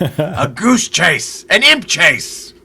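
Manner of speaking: slow, high, very loud bellow; furious shouting. Acted. Adventurer shakes the mirror by its edges, shouting in great fury. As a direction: roar each word out in great fury. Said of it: "great fury".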